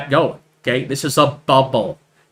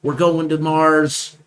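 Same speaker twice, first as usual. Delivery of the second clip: mocking hype; 2 semitones higher than usual. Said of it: "people were saying".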